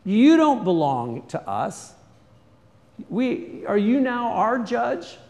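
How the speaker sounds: loud, high mocking challenge from the Hebrews; indignant shout of two quarrelling men; defiant retort. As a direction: throw it back at him, scornful. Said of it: "And then he said".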